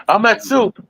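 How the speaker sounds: high, puppet-like Kermit; high playful frog voice. Retold or imitated. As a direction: chirp it up like the frog. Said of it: "And he's like".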